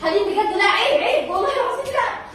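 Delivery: high-pitched, alarmed protest; urgent pleading. Real, not acted. Wife begging husband not to confront her, urgently pleading. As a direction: plead with him to stop, pitch climbing.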